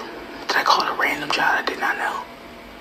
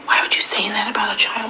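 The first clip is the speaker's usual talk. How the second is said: higher-pitched imitation of appalled onlookers; put-on disbelief, pitched up; mock outraged critics; 4 semitones higher than usual. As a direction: mimic scandalized questioning, rising high on "Really". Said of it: "the rest of y'all are like".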